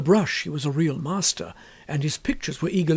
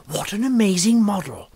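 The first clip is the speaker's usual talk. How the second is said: breathless hushed whisper; 3 semitones higher, 4 dB louder than usual. Acted. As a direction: whisper it so the model won't hear. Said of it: "whispered Hughie".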